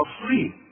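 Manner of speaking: الصين with a full emphatic s; heavy sad. Shown as a demonstration. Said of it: "شوف،". (الصين بصاد مفخمة)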